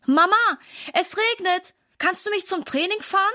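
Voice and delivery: hoch, als kleiner Junge bittend; Kinderstimme. A narrator's reading. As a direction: wie ein Kind, das um etwas bittet. Kind bittet Mama. (höher gesprochene Kinderbitte)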